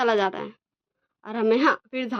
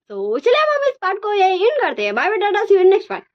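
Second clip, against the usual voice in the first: high, bright sign-off to the audience; cheery outro; 8 semitones higher, 5 dB louder than usual. Acted. Host saying bye to her viewers, high cheerful outro voice. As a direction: wave the viewers goodbye, upbeat.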